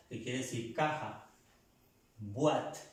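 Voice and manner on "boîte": "Boîte" starting on a well-formed B; clear B in BOÎTE. Shown as a demonstration. Teacher models the French word for box, clear B in "Boîte". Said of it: "pronunciando bien la letra B".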